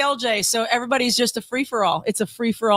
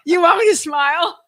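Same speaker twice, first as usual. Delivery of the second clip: maniac voice; 8 semitones higher, 4 dB louder than usual. Pretend.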